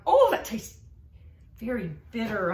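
bright disgusted "oh" at the bitter taste; mock disgust. Teacher acting out a bitter taste for the student, mock disgust. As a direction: act out tasting something awful. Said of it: "it tastes bitter".

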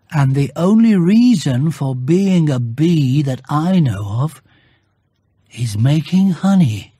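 lightly voiced bear, slow and musing; a hint of a puzzled bear reasoning it out; Pooh thinking aloud. Bear reasoning aloud to himself, lightly voiced puzzled bear.

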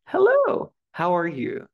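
very high, loud, sung-out hello; delighted greeting. Acted. Teacher meets you in the street, delighted high-pitched greeting. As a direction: pipe up as if bumping into a friend.

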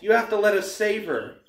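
high, loud desperate insistence; yelled plea. A narrator's reading. Boy begs the hunters for a rescue, yelling. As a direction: plead at full urgency. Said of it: "I yelled".

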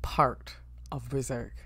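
a secretive whispered intro. Acted. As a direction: lean in and whisper it. Hushed dramatic intro.

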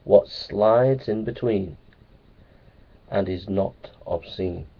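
slow riddle. Shown as a demonstration. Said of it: "can you work out".

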